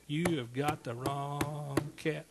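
slow, drawn-out mock protest; slow-motion insistence; emphatic refusal. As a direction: stretch each word out, re-enacting stubborn refusal. Acting out his refusal to God.

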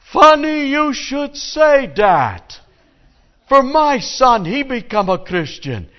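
high shouted punchline. Acted. Rabbi answers the father, high slow shout. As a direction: wail the line up high and drag it out.

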